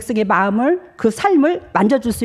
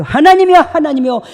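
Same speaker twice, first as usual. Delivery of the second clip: high, loud pleading call to God; impassioned prayer call; fervent prayer cry; 7 semitones higher, 6 dB louder than usual. Retold or imitated. Praying aloud in quoted prayer.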